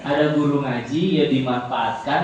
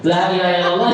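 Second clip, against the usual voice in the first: put-on quick, laughing Javanese-accented illallah; Javanese tongue; 3 dB louder, much faster than usual. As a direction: say it the easy village way, with a laugh. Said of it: "Nek wong Jawa ilate".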